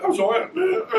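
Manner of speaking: breaking into a laugh mid-sentence, voice jumping high. Real, not acted. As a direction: laugh through the words. Laughing while recalling work.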